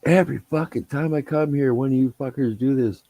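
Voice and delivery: high-pitched exasperated complaining about the pranks; fed-up griping. Retold or imitated. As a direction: gripe like a fed-up vet who finds dung on his car again. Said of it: "And he'd be like".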